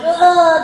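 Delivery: high, loud mock sob; a brief wailing groan, acting out crying; imitated crying wail. Actor retelling hours spent crying on set, loud imitated wail. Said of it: "just crying".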